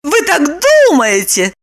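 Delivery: high, triumphant; triumphant Lipochka. A narrator's reading. Lipochka triumphing over Roman. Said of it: "торжествуя заявила Липочка".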